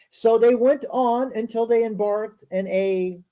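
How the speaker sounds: slow, measured reading aloud; scripture reading. Acted. Host reading scripture to a stream audience, measured recital. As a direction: read it out formally, word by word.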